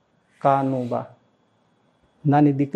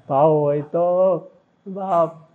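slow emphasis; much slower than usual. Shown as a demonstration. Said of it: "slow emphatic repeat".

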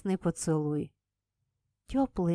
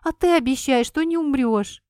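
demanding; 6 semitones higher, 6 dB louder than usual. Acted. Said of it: "тут же потребовала".

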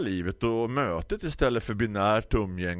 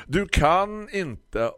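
resigned; 12 semitones higher, 4 dB louder, much slower than usual. Acted. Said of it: "allt bara rann av mig".

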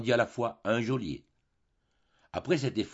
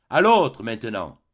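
slow, much louder shout; cry out; 9 dB louder, slower than usual. A narrator's reading. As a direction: bellow it out, slowly.

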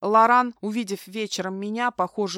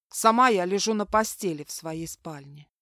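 ordinary delivery, nothing marked

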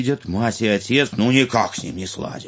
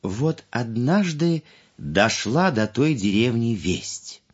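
grandma telling fairy tale; 2 semitones lower than usual. A narrator's reading. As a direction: tell it like a grandma at bedtime.

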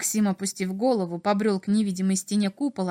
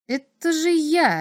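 taken aback; 7 semitones higher, 4 dB louder, slower than usual. A narrator's reading. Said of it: "опешил Максим".

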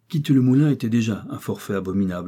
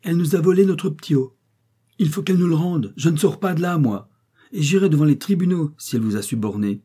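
much higher, louder angry tirade; furious ranting; 8 semitones higher, 7 dB louder than usual. A narrator's reading. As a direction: rage and demand the child back. Victoire raging at the notary.

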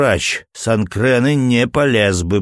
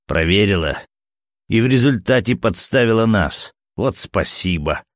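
sardonic. Acted. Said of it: "сардонически усмехнулся скрипач".

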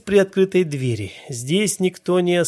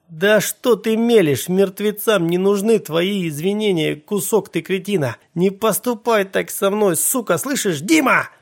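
high, loud desperate yell; 4 semitones higher, 3 dB louder than usual. Acted. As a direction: scream through the steel door at your brother. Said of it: "Я орал и колотил".

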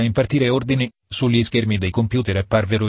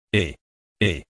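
shrill call; 2 semitones lower than usual. A narrator's reading. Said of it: "strillò il re".

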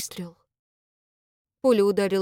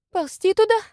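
tense retort; 11 semitones higher, 3 dB louder than usual. A narrator's reading. Tense argument under fire.

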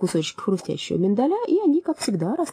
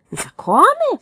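high, loud indignant cry; cried out; 7 dB louder, much slower than usual. A narrator's reading. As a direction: shout the word in outrage. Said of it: "вскричал Джерри".

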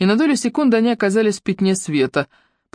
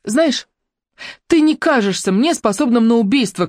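shouted challenge; 6 semitones higher than usual. Acted. Ruby shouts a challenge at Claude. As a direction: call out to provoke him. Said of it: "крикнула Руби".

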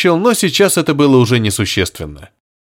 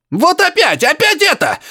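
much higher, strained cry through a speaker; frantic yell. A narrator's reading. Professor shrieking through the receiver, much higher. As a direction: scream in distress. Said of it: "истошно закричал Барсуков".

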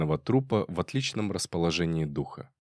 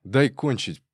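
higher, louder hoarse rasp; a wheezing snarl telling a rival to back off; 4 semitones higher, 5 dB louder than usual. A narrator's reading. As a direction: rasp it out, annoyed and winded. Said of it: "прохрипел Зайко".

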